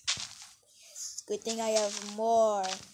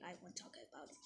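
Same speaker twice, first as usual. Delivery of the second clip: much softer, lower repeat; quiet mutter; 7 semitones lower, 24 dB quieter, much faster than usual. Shown as a demonstration. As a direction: drop it under your breath. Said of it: "Oh, I won't talk about it".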